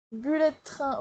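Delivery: Bullet Train in a French accent; French-accented English. Shown as a demonstration. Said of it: "je le dis à la française". (Bullet Train à la française)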